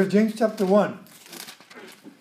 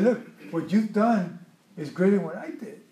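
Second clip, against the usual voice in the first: softer, placating tone; calming; 5 dB quieter than usual. Retold or imitated. Gideon calming the jealous men of Ephraim, soft and placating. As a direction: talk an angry crowd down gently. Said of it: "he very wisely calmed the".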